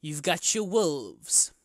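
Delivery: slow, deliberate old local, lightly voiced; old bartender. Old bartender warning adventurers about the woods, lightly acted and slow. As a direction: list the dangers with long pauses.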